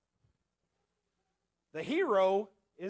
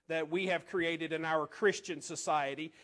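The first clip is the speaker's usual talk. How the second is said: sarcastic; 3 semitones lower than usual. Real, not acted. Little sarcasm there with the Christian society.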